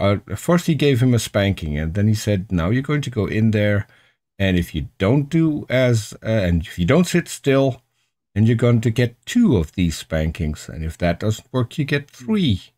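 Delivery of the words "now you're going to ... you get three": very calm voice. Retold or imitated. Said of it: "he does that in a very calm voice".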